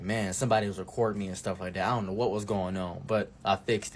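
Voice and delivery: a lightly voiced bro shrugging it off; low, dismissive buddy. Friend's excuse voiced lower.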